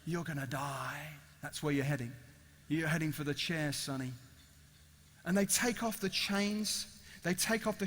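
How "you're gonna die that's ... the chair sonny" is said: low, soft, ominous address; grim warning. Acted. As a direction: pronounce doom quietly and deep. Voicing the threat of a death sentence.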